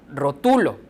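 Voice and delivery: rotulo said as ro-TU-lo; stress on middle syllable. Shown as a demonstration. Teacher reading the word as written, stressing TU in rotulo. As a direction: put the weight on TU in rotulo. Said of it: "como está escrita".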